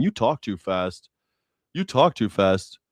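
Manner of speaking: slow, dopey mock voice; mock slow dullard. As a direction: drag it out like a slow listener. Mocking slow critics.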